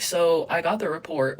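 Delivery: slow, low, measured retelling; calm. Retold or imitated. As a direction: keep it controlled and unhurried. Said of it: "I stayed as calm as I could".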